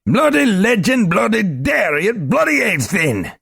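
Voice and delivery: high, loud flustered babble; flustered little man. Acted. Globin picking himself up, flustered high babble. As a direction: scramble the words in shock.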